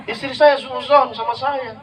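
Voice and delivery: slow, amused telling; laughing. Real, not acted. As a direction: chuckle through the complaint. Cerita sambil tertawa. (tertawa sambil bercerita)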